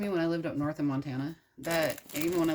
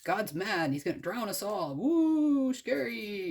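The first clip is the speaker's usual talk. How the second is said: sneering at Noah, ending in a mock Woo, scary; mocking townsfolk; 4 semitones higher than usual. Townspeople mock Noah's flood warning, sarcastic. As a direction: ridicule the prophecy, hamming fake fear. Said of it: "people are like".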